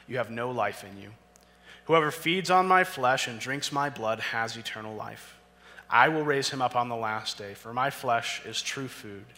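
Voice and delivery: steady, earnest reading of the passage; scripture reading. Acted. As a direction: read the gospel with conviction. Reads John six passage.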